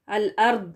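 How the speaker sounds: الارض ending in a light d; light d in place of heavy Daad in الارض; mistaken Daal. Shown as a demonstration. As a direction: say الارض as "al-ard" with plain Daal. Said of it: "پڑھ دیتے ہیں دال کے ساتھ".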